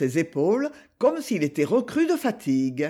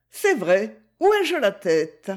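Gigi's voice; 3 semitones higher, 4 dB louder than usual. Acted. Gigi voiced in read story.

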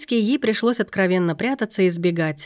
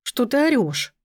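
higher-pitched indignant protest; 5 semitones higher than usual. A narrator's reading. Katka protests at being yelled at, indignant. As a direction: push back, affronted. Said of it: "возмутилась Катька".

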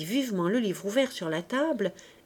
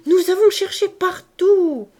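put-on a girl clapping her hands with joy, slow cry; delighted cry; 9 semitones higher, 9 dB louder than usual. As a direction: cry out with joy, much louder and higher. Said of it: "s'écria". (s'écrier de joie, beaucoup plus fort et plus aigu)

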